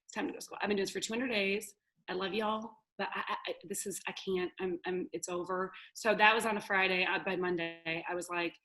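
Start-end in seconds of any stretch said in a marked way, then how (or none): 0.0-5.7 soft, worn-out muttering; exhausted whisper. Retold or imitated. Exhausted homeschooling mom giving up, soft and drained. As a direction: fade out like you've given up. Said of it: "exhausted mom retelling".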